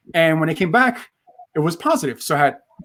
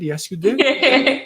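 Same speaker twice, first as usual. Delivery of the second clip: "Yes, you did" drawn out very slowly and much higher; playful sing-song; 8 semitones higher, much slower than usual. Shown as a demonstration. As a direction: stretch "did" slowly up high like a playful tease. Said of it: "Did I pronounce that right?".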